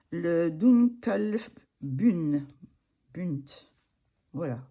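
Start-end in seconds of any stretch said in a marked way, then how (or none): 0.1-3.4 labored attempt at a German accent; poor German accent. Real, not acted. Vlogger reading out a product name, clumsy German accent. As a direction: sound out German slowly with a French accent. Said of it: "mon accent, c'est pas terrible".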